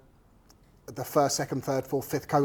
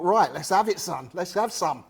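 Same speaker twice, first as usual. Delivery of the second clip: mock British officer; 2 semitones higher than usual. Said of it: "I can imagine the officers sounding just like that".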